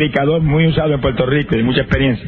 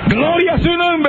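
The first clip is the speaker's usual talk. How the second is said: very high, very slow exultant call; ecstatic praise cry; 12 semitones higher, slower than usual. Real, not acted. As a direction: soar up on every word in praise. Spontaneous praise amid testimony. (alabanza exultante, muy alta y lenta)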